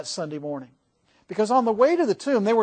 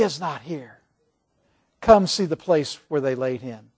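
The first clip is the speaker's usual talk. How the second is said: reassuring angel. Acted. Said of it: "the angel tries to quiet their nerves down".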